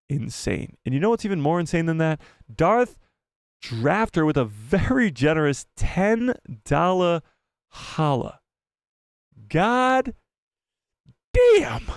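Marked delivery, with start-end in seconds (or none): 2.5-11.9 high drawn-out hype, rising to a big "damn"; hammed-up donor shout-out. Real, not acted. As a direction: stretch it out like a hype man, climbing into a yelp.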